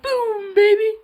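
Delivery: gamer's triumphant yell; victory shout. Retold or imitated. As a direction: celebrate a good play in Overwatch. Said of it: "I'm like".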